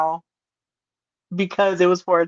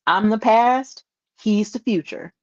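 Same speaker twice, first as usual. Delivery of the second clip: quoting Brock. Retold or imitated. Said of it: "gets a microphone and says".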